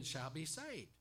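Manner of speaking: saved drawn out and falling; slow down and land on saved; stress on saved. Shown as a demonstration. Preacher emphasizing each word of the verse, slow stress on saved. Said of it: "emphasizing each word".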